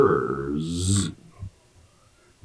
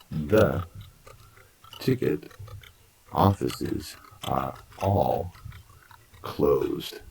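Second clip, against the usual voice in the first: slow deliberate model sentence, "ticket" pitched up; slow drill; slower than usual. Shown as a demonstration. Teacher slowly modelling the sentence for students. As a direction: break the sentence into slow chunks. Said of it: "Let's try it that way".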